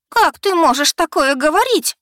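very high, loud wail; провыла. Acted. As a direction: howl it out in tears. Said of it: "провыла она".

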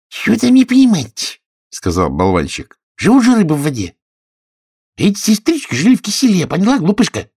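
high, fast teasing voice; mocking Hatter. Hatter teasing Alice, high and mocking. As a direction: talk down to a silly girl.

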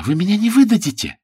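high and quick, hopeful plea; eager cry. A narrator's reading. Sue begs Galahad not to betray her, high and fast. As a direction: rush it out in hopeful relief. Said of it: "вскричала она".

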